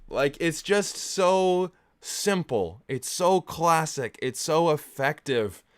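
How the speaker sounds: gushing praise. Real, not acted. Fan praising the classic film, slow emphatic gushing. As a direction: savour every word of praise.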